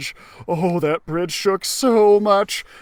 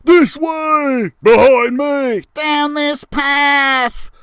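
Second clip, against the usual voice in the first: loud, higher shouted directions; 8 semitones higher, 7 dB louder, much slower than usual. Acted. Mice Kings shouting directions back to the others, loud. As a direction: call back over your shoulder while running. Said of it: "as they shouted back at us".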